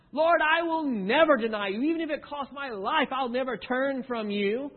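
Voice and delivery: high and loud, fervent promise; boastful Peter. Acted. Peter to Jesus, vowing loyalty, high and loud. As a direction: swear it with full conviction.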